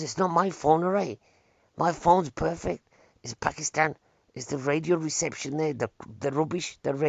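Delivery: imitated indignant protest; retold anger. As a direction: act out an offended man defending his phone. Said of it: "He got really angry".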